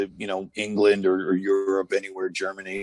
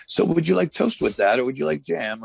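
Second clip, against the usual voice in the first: high, chirpy imitation of a polite English butler; English accent; 7 semitones higher than usual. Wrestler imitating Owen's English accent offering toast. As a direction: mimic a fussy English accent offering breakfast. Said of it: "he certainly always did that".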